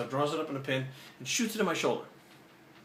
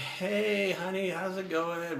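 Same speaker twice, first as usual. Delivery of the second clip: higher, slow, drawn-out hello; blissed-out greeting; 5 semitones higher, much slower than usual. Retold or imitated. High guy greeting his girlfriend at home, blissed-out. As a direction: stretch it out like someone happily high.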